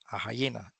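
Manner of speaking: "a hiena" with a rasped ja-like h; H sounded. Shown as a demonstration. To the class, showing the H that sounds. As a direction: give "hiena" a breathy ja start. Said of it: "aquí sí suena la H como ja".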